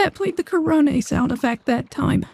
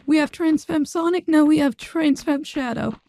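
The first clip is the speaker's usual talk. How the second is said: voice changer. Real, not acted. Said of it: "official gender bent voice for Shadow".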